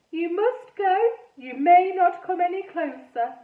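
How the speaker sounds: put-on high, slow ghost boy with a French-ish accent; funny French-ish accent. A narrator's reading. Ghost boy Edmund speaking.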